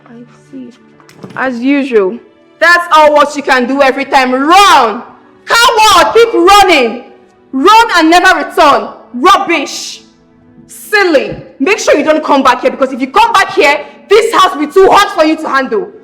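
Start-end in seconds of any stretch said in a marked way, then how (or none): 2.6-12.6 angry jeering. Acted. Jeering after someone who leaves.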